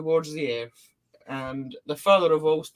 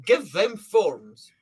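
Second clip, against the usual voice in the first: authoritative. Acted. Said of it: "he sounds like a really authoritative".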